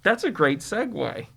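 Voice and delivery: muffled through a face mask; talking muffled behind two masks. Real, not acted. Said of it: "I'm sorry if I'm muffled at times".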